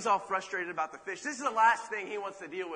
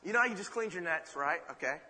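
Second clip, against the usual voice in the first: eager invitation; 3 semitones higher than usual. Acted. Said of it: "he says".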